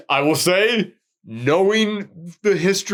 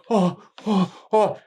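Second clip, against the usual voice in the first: imitated frightened gasps; 3 semitones higher, slower than usual. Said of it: "and they're going".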